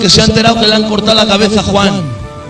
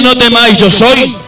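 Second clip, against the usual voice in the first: emphatic proclamation; 4 semitones higher than usual. Shown as a demonstration. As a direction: ring out No temáis, yo soy. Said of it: "Nadie puede decir".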